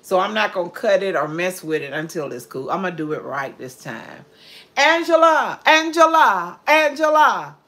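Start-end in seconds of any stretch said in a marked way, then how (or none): 4.8-7.6 calling out. Real, not acted. Mother calling Angela from the kitchen, loud and high. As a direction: call the name loud and high across the house.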